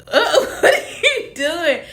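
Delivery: high, laughing question; amused retelling. Retold or imitated. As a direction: crack up while asking. Laughs retelling her puzzled reply.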